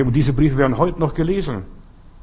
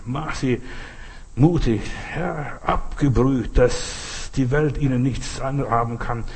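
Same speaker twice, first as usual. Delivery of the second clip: earnest, lowered praying voice; prayer; 2 semitones lower than usual. Real, not acted. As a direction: speak to God in steady, flowing phrases. Leads a closing prayer.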